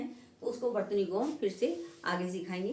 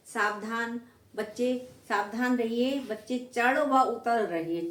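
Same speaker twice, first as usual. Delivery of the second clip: read-out bus sign; 4 dB louder than usual. Retold or imitated. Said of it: "मैंने बस के पीछे लिखा हुआ देखा है".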